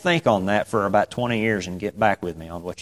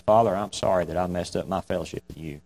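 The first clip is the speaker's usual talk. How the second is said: quick soft prayer; 3 semitones lower, 7 dB quieter, faster than usual. Shown as a demonstration. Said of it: "go to the Father and say".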